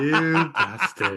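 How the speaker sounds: drawn out through laughter; laughing, slowed down. Real, not acted. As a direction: laugh it out slowly.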